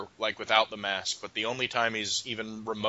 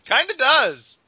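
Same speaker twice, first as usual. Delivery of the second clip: laughing; 13 semitones higher, 10 dB louder, slower than usual. Real, not acted. Laughing agreement.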